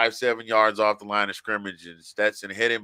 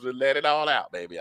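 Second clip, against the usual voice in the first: Madea voice; 4 semitones higher than usual. Retold or imitated. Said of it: "my wife sound like Madea".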